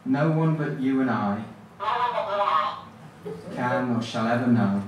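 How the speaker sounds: measured poetry reading with long pauses; poem recitation. Acted. Poet reading a favourite poem to the audience, measured and halting. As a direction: recite line by line, leaving a wide gap after each.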